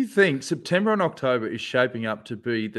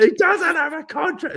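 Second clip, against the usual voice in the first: repeating the taunt; 12 semitones higher, 3 dB louder than usual. Retold or imitated. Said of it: "he goes".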